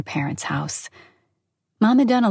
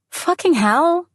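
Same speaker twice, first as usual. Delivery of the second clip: much higher, louder outburst; swearing; 11 semitones higher, 3 dB louder, slower than usual. A narrator's reading. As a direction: spit out the curse in exasperation. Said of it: "Olga swore".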